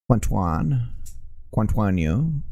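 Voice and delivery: jokey fake French accent on Quantuan; mock French. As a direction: mangle continue the French way. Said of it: "me doing my French".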